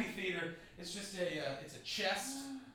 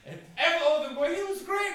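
mock praising fans; 12 semitones higher, 7 dB louder than usual. Audience members praising him.

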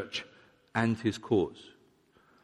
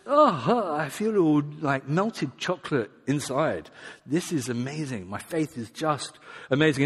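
mock-swooning, starting high and settling down; gushy emotional believer; 3 semitones higher than usual. Believer confusing faith with warm fuzzies, gushing. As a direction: sigh it out, blissed-out and gooey. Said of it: "tied up with their emotions".

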